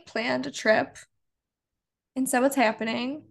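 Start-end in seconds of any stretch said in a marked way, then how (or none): 2.6-3.2 Midwest vowels on happening; flat Chicago A in happening; Chicago accent. Real, not acted. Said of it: "I sounded so Chicago when I said happening".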